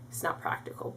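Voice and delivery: whispered quick aside; whispering. Real, not acted. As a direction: breathe it as an aside. Quick aside under breath.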